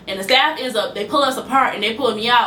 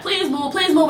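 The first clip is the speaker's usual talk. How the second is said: higher-pitched retold plea; pleading; 5 semitones higher than usual. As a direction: lightly imitate someone begging her to step aside. Retold staff member begging her.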